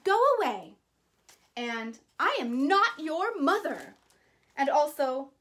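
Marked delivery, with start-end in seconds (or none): 0.0-0.8 higher, louder stern order; stern bear. Acted. Grumpy bear Bruce tells the goslings off, stern and loud. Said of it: "Bruce was very stern and said". 2.2-4.0 stern bear. Acted. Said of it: "Bruce was very stern and said".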